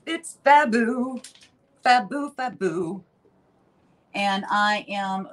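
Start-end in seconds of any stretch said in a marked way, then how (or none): 0.1-3.0 higher, drawn-out showy delight; campy little celebration; playful gushing. Pretend. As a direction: sing out the praise playfully, then ease off. Gushing playfully over her finished glaze.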